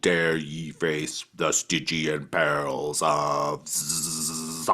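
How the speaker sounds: slow booming villain voice; dark lord. Acted. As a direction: announce doom like a game villain. Arcade game voice line.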